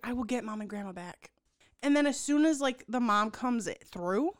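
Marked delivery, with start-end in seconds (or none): 0.0-1.3 Marnie's vow. Retold or imitated. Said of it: "And then Marnie's like".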